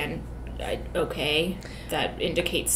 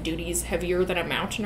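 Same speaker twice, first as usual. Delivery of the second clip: usual speaking voice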